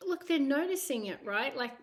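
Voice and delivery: ordinary delivery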